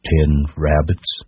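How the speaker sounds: slow, mocking scorn; scornful. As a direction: draw it out with contempt. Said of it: "it said scornfully".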